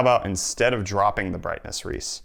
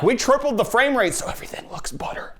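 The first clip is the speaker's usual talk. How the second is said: high, put-on silly voice; mocking quote; 12 semitones higher than usual. Mocking motion smoothing on TVs, high silly voice. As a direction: mimic a dumb boast in a high voice. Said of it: "instead of being like".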